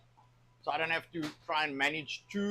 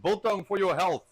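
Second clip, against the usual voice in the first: mock boast; 4 semitones higher, 4 dB louder than usual.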